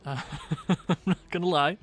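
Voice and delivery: tipsy and giggly. Real, not acted. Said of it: "a little tipsy".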